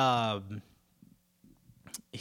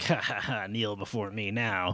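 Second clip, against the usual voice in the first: General Zod; 6 semitones lower, 4 dB quieter than usual. Retold or imitated. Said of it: "Zod's like".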